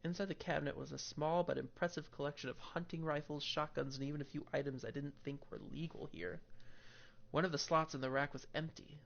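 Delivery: steady narrating read of game text; story narration. Acted. Reads game text aloud.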